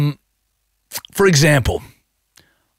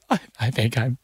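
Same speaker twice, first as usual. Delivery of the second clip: mock tearful, halting and a little higher; imitated emotional wife; 4 semitones higher than usual. Husband mimicking his wife mourning the mole, mock tearful. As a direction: start small, then plead as if welling up. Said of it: "I'm just getting emotional".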